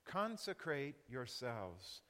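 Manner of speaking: slow, weighty command; solemn divine command, slowly. Acted. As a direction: lay each word down slowly. Repeating the command softly, slowly.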